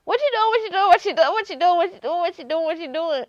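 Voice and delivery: high, sharp repeated demand; mock Precious mother yelling; imitating a furious mother; angry mama. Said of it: "her mama was on Precious".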